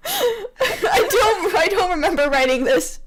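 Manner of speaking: laughing through the words. Real, not acted. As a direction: break up while saying it. Laughing at own writing.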